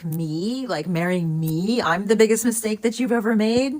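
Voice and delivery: mock-incredulous retort, speeding up at the end; sarcastic snark. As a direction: throw his words back with snark. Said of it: "like, sarcasm and kind of snark".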